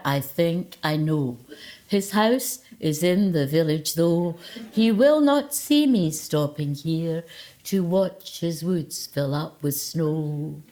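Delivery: slow, mock-solemn poem recital; hammed-up vicar-style recitation; sing-song poetry voice. Shown as a demonstration. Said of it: "with a wee bit of the poetry voice".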